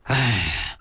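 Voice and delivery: low, drawn-out sigh; brooding sigh. A narrator's reading. Departing man sighs to himself on the hillside, brooding low sigh. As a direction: let out a low sigh to yourself. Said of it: "心里琢磨".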